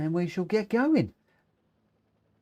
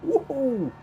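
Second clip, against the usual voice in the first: excited; 10 semitones higher than usual. Real, not acted. Excited joining race.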